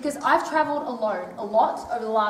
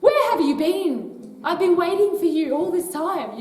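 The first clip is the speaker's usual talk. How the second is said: drawn-out, higher, delighted greeting to the late arrivals; slow it down, a little louder, arms-open welcome; mock joyful welcome; 4 semitones higher, 4 dB louder than usual. Speaker imagines greeting newly awakened people, slow and delighted. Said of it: "And we'll be like".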